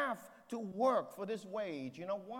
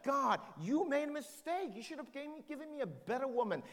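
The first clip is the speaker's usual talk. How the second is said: Adam's whining, pitched higher; higher, sulky voice of a man blaming God; whiny mock complaint; 6 semitones higher than usual. Adam blaming God, acted.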